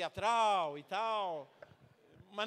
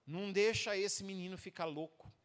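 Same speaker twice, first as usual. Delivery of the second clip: slow prayer; 4 dB quieter, slower than usual. Retold or imitated. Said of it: "colocou a mão assim e disse assim".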